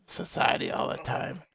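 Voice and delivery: high witch voice slipping back down; witch voice fading. Acted. Streamer to chat, witch voice fading toward his own. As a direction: let the witch voice drain away. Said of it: "That's more like a witch voice".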